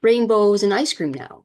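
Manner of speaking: sarcastic all-is-perfect voice; mock cheery. Mocking the idea she's fully healed, fake cheerful. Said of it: "try to be like".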